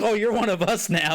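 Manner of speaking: high-pitched mock heckler; imitated yelling. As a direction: play a pushy street preacher hollering. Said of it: "they started yelling at him".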